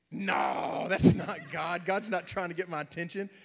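loud, high-pitched insistence; hammed-up emphatic refusal; acted loud denial. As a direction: wave it off at full volume. Acts out loud denial to himself.

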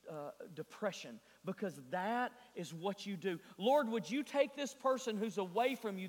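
earnest petition, rising in pitch and volume; retold prayer. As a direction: plead with God, gathering force as you go. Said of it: "we began to pray those things out".

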